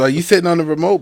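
loud, high-pitched incredulous question; retold outburst. Podcaster repeats the remote accusation for laughs, loud mock outrage. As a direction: demand it again at high volume.

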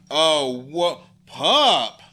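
loud, high startled yelp at the dog; startled call. Real, not acted. Owner startled by her dog, calling it loudly.

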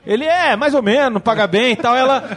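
quick high retelling of both voices; light mock dialogue. Retelling Rey and Han's job offer, quick and light. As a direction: toss the lines off lightly. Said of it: "ela fala".

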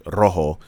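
rojo with a plain English R; imitating a wife's untrilled rojo; unrolled R. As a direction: say rojo without rolling the R. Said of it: "she don't roll her R's".

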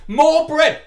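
high loud mock cry; mock exclamation. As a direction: shout it in mock delight. Mock exclamation about burger.

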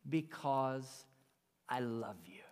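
a hushed, tender whisper of love. Retold or imitated. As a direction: whisper it softly as God's gentle answer. God's tender answer of love.

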